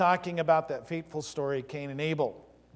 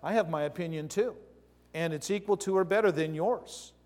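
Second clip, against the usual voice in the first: defiant voice of sin; 3 semitones higher than usual. Acted. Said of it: "But sin says".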